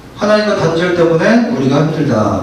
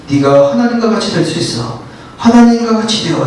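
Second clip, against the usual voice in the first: tempting serpent. Acted. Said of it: "하잖아요".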